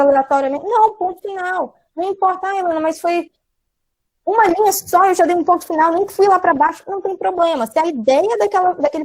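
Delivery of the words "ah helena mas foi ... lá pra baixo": a student's whiny objection, pitched higher; mock student protest. Student pleading with the teacher Helena, mock protest. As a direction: play the pupil arguing back at the teacher.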